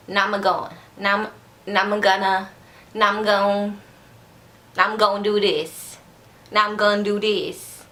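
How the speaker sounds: "Now I'm going" slurred into "nama-go'n"; demonstrating the slur, "now I'm" squashed into "nam"; slurred words. Shown as a demonstration. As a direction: run "Now I'm gonna" together as "namma gonna". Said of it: "I always say".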